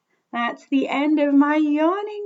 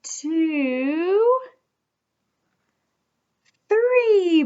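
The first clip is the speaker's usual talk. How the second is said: excited count; much slower than usual. Shown as a demonstration. Counting hippo yawns.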